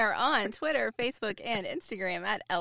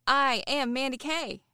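mock formal announcement; 3 semitones higher, 3 dB louder than usual. Shown as a demonstration. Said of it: "Oh, I have another line".

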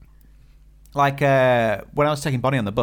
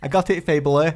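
put-on Scottish accent. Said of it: "watching the Limmy show".

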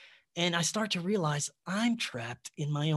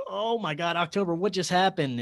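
higher, louder mock astonishment; retold shock; 5 semitones higher, 4 dB louder than usual. Man asking girlfriend after the banishing, retold shock. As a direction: lightly act out stunned disbelief.

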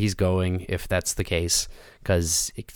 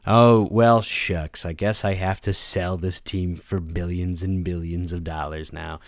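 mock regret; 3 semitones lower than usual. Mocking the owner's fake regret.

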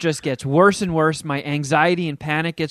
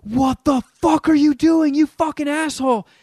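much higher and louder, slowed, aghast; shocked group yell; 11 semitones higher, 4 dB louder than usual. Retold or imitated. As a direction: yell at the friend who nearly cut himself. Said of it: "everybody goes".

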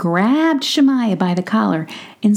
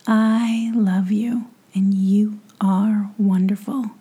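tender whisper; slower than usual. Real, not acted. Tender goodbye to child listeners.

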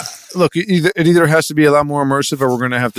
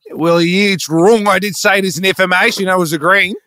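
put-on slightly raised Australian accent; higher, protesting Australian voice; Australian self-defence; 5 semitones higher than usual. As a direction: insist like a put-out Aussie. Plays Australian tour guide.

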